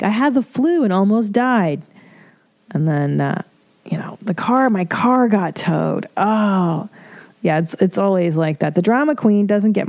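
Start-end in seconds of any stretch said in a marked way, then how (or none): 0.0-1.8 mock drama queen. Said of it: "people who are like". 4.2-6.9 mock drama queen.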